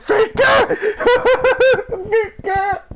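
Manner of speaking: high, laughing pained yelps. Real, not acted. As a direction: laugh through the aching cheeks. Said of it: "Es tut so weh".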